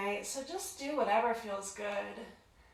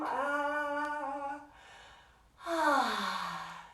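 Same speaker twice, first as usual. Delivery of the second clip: vowel sound; 3 semitones higher than usual. Shown as a demonstration. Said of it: "Maybe big vowel sounds".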